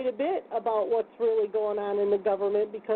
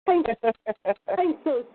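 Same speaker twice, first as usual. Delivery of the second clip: laughing; 4 dB louder than usual. Real, not acted. Laughing at her own joke.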